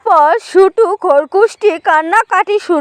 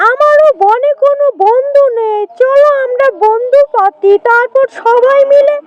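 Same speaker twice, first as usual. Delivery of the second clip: high animal-character voice, persuasive; lightly voiced coaxing jackal; 5 semitones higher than usual. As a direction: lightly play a jackal luring new friends.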